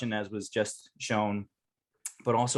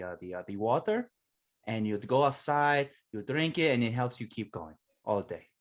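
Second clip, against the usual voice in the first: put-on Spanish accent; 2 semitones higher than usual. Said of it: "show because I learned it from Nacho Libre".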